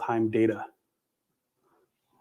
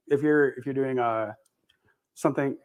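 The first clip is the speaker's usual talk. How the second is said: chewing gum while talking; mouth full. Real, not acted. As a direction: talk around a wad of gum. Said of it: "I can't talk with gum in my mouth".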